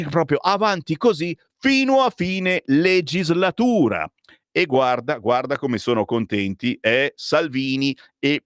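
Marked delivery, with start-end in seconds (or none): 0.1-4.0 sarcastic. Real, not acted. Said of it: "quando parlo di Tajani".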